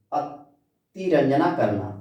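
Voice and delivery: drawn out slowly for the class; slow repeat. Shown as a demonstration. Teacher repeating the Hindi word अतिरंजना slowly for students. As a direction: say each syllable slowly so students catch it.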